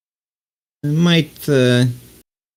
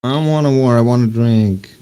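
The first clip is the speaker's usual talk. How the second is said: lightly put-on character voice, pitched up; a touch of a complaining character; Sally; 2 semitones higher than usual. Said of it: "why did you make her sound like Sally".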